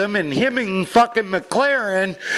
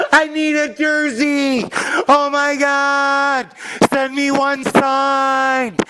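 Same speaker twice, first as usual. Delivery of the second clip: higher, slow, whiny plea of a bandwagon fan; mocking begging fan; 4 semitones higher, slower than usual. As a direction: beg for a signed jersey like a fair-weather fan. Mocking fans begging for jersey.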